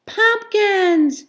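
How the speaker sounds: high, loud cry of disgust; disgusted outburst at the sight; cried in disgust. Acted. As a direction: spit the word out in revulsion. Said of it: "she cried in disgust".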